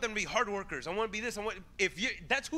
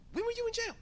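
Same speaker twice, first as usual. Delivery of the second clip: incredulous; 14 semitones higher, faster than usual. Retold or imitated. People complaining to Jesus.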